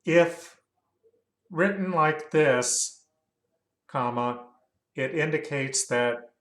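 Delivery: measured dictation with spoken punctuation; dictating. Real, not acted. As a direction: dictate it to the software, saying the punctuation. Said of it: "gotta remember about that voice recognition".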